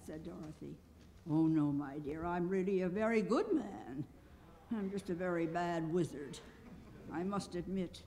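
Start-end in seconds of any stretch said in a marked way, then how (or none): 1.3-8.0 soft, mild self-defence; meek admission. A narrator's reading. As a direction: confess it gently and quietly. Little man meekly confesses.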